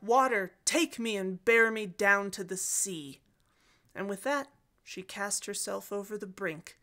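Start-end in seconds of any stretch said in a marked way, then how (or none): 0.0-3.2 crying out. Acted. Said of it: "she cries out".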